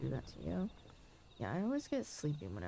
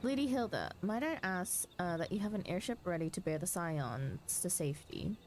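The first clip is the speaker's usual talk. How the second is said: urgent fantasy dialogue; 3 semitones higher than usual. Acted. Streamer voicing battle news in the cutscene, lightly urgent commanders. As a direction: sound the alarm like a knight at war. Voices game characters aloud.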